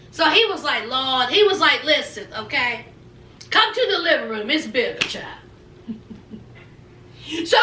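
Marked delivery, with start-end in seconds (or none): 0.9-5.4 lightly voiced husband, calm and firm. Husband calming his wife, a lightly lowered man's voice.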